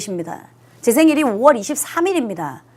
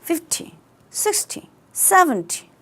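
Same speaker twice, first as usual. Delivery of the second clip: "Fifty", "sixty", "seventy" said soft, with no stress on "-ty"; unstressed endings; 4 semitones higher, 6 dB quieter, much slower than usual. Shown as a demonstration. Teacher showing the unstressed "-ty" endings. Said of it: "강세가 없어요".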